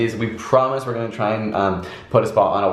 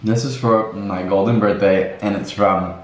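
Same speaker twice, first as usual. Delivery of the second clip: chewing while talking; slower than usual. Real, not acted. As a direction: mouth full of food. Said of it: "sorry, I'm chewing a mouthful".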